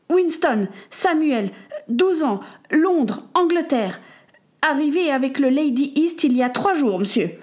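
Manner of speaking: put-on a twelve-year-old answering an official carefully; dutiful boy.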